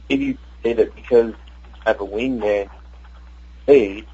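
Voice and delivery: distant speakerphone sound; phone held away. Real, not acted. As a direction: far from the phone, muffled. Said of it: "You're, you're kinda cutting off".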